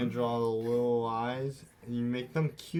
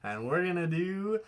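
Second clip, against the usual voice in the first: high, sing-song segment announcer; kids' show host; 6 semitones higher than usual. Pretend. Introducing Art Corner to viewers at home, sing-song host. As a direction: stretch the segment name and sign-off up high.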